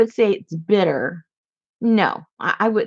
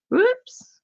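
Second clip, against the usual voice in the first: a quick high whispered oops; startled whispered whoops. Real, not acted. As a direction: breathe it out as a little slip. Fumbles something on camera.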